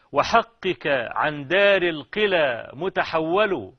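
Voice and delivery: measured classical Arabic verse recitation; poem recitation. Acted. Lover addressing his absent beloved in verse, measured poem recitation. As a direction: recite each hemistich evenly, pausing between.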